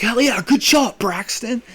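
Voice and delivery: high cheer, lightly voiced kid; gang kid cheer. Gang kid cheering on Braxton, lightly voiced. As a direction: cheer the shot like a hyped teen.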